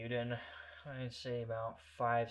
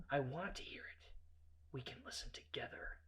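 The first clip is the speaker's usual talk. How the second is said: whispery, creepy invitation; soft and sinister; quiet menace; 9 dB quieter than usual. Retold or imitated. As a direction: drop to a near-whisper.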